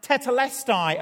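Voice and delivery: loud, high cry from full lungs; triumphant-scale shout, high and loud; dying cry. Retold or imitated. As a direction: cry it out with a last breath. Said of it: "filled his lungs, and cried out".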